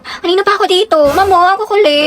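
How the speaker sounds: high-pitched cutesy scolding; pa-bebe whining. Acted. Cutesy girl scolding the rowdy boys, pa-bebe whine. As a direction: play babyish and put-upon, pitch up. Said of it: "Ang pa-bebe".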